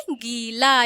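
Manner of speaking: गीला with drawn "geee"; long-ee "geee-laa" for गीला. Shown as a demonstration. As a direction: stretch the first vowel of गीला. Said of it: "इसमें बड़ी की मात्रा रहेगी".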